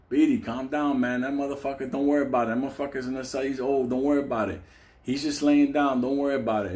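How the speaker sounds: low, easy calming-down voice; reassuring. Retold or imitated. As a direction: talk a nervous cellmate down. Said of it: "I'm telling Beatty from the cell".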